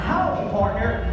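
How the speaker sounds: a hint of a cowboy greeting, high and loud; cowboy howdy. Shown as a demonstration. Teaching the crowd their cowboy greeting, lightly voiced. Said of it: "walk up to them and go".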